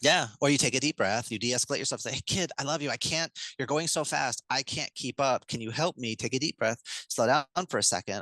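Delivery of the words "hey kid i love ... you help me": put-on a little higher and quicker, meeting the kid's energy; match the racing kid, then coax; higher-energy parent demo. Shown as a demonstration. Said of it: "what you just did is you met them at a higher amplitude energy".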